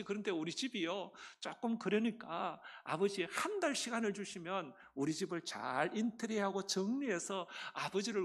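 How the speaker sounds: delighted welcome. Retold or imitated. Youngest son welcoming his lonely father, delighted. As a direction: voice a glad, welcoming son in a storyteller's retelling. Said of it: "좋아하면서 반색을 하면서".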